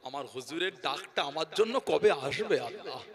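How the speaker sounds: hushed, mildly tearful appeal to God; retold weeping prayer. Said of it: "দেখতেন আর কাঁদতেন".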